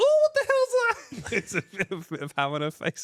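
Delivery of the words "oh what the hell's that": very shrill, high, loud Scottish woman's outburst. Retelling a video clip where a kid throws ham at a woman: imitating a Scottish woman. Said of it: "I love the impression".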